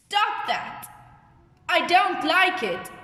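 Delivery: high-pitched acted telling-off; mild demonstration of anger; angry. Shown as a demonstration. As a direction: object firmly, as a classroom example.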